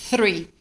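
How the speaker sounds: "three" with a voiceless TH; tongue between the teeth to start "three"; "three" opening on a breathy th, not a t; clear unvoiced TH. Shown as a demonstration. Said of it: "dessa forma assim".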